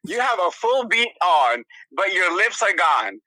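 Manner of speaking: mock accusation. Eureka calls out the friend at the door, mock accusing. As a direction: imitate a friend reading the evidence. Acts out friend calling her out.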